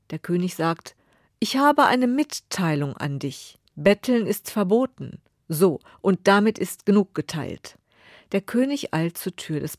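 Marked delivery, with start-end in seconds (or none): 1.4-7.8 haughty decree. Acted. King refuses beggar.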